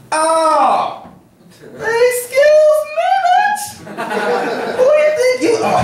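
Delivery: very high squealing mock outrage; hammed-up ghetto lady. Crazy lady snapping back at a passenger, hammed-up falsetto outrage. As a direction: stretch it out in an offended falsetto. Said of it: "this lady's so ghetto".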